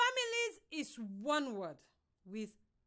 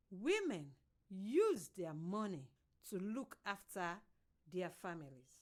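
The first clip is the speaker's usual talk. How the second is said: read slowly; 5 semitones lower than usual. Shown as a demonstration. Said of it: "how you will do a drama to show the sentence".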